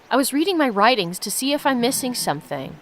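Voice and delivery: steady read-aloud narration of the game text; reading the story to viewers, lightly lifted. Acted. Streamer reads the game's story to viewers, steady narration.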